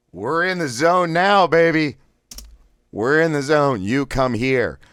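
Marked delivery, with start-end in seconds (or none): 0.1-3.8 high, loud and buoyant; pumped up. Real, not acted. Coach pumped up after the exercise, excited. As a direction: cheer yourself on.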